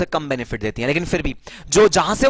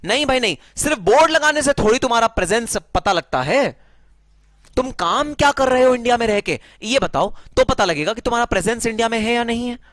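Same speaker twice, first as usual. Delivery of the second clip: higher-pitched, challenging voice of officials; objecting government; 6 semitones higher than usual. Acted. Non-haven government challenging a company on its presence, objecting. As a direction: push back like a sceptical authority. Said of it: "उनकी सरकारें कहेंगी".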